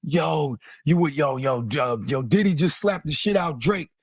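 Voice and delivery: lightly voiced hyped-up callers, yo yo yo; excited callers. Retelling the calls about two rappers, excited mock callers. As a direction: rattle off the frantic phone calls.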